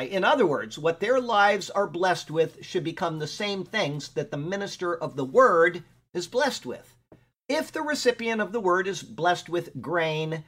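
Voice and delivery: measured, emphatic reading of study notes; commentary read aloud. Real, not acted. Teacher reading verse notes to a class, deliberate read-aloud. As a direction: read it out deliberately, leaning on key words. Reads own written commentary.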